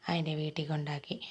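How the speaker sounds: soft whisper of the story's end. Acted. Teacher whispers the happy ending to her little pupils. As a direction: hush it down like a bedtime secret.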